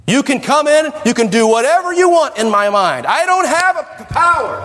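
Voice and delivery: high mock whine; mock helpless voice. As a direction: mimic a powerless believer. Voicing a weak Christian mind.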